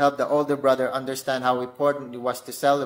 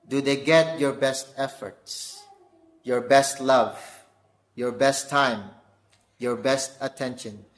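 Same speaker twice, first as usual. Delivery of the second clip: "best" hit in each phrase, slow; stress on best. Shown as a demonstration. Preacher to dads, stressing "best" each time. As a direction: punch "best" every time. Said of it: "best repeated in list".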